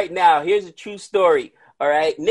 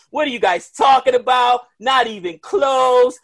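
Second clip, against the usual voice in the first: mock angry commenter; 4 semitones higher than usual. Gabe voicing outraged cricket fans in his comments, mock shout.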